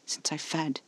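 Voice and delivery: soft, apologetic admission. A narrator's reading. Caspar admitting it to the narrator, softly apologetic. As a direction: confess it softly. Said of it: "eyes wide and apologetic".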